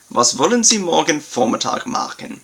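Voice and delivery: teacher reads Was wollen Sie morgen Vormittag machen aloud; German model sentence. Shown as a demonstration. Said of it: "I will begin again with the Hauptsatz".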